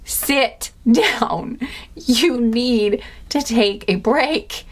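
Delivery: slow, firm order with a laugh; sit them down with a firm hand; mock-stern guide telling them to rest. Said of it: "need a firm hand right now".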